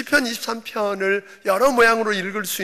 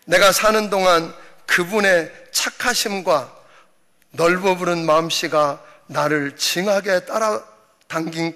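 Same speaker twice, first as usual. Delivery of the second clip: Jeolla dialect. Pretend. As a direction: preach the psalm like a Jeolla grandpa. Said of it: "전라도 버전은".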